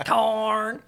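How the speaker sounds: slow, drawn-out single word, held level; Belle's voice. Acted. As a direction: voice the captive creature drawling out one word. Voicing Belle's few words.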